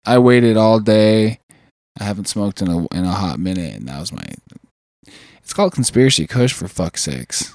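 high, drifting speech; stoned rambling; stoner. Real, not acted. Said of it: "I am high as fuck right now".

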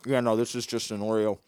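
talking with a mouthful of cookie; chewing while talking; mouth full. Real, not acted. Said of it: "talking with my mouth full".

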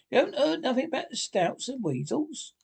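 high-pitched, mildly shouted question; incredulous shout. A narrator's reading. Rat breaking news to Toad, shouting incredulously. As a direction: exclaim it high in disbelief. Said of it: "shouted the rat".

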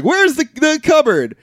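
high, loud, drawn-out mock demand; imitating a worked-up kid; retold frantic demand. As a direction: wail the question like someone urgently searching. Retold frantic search for cupboard.

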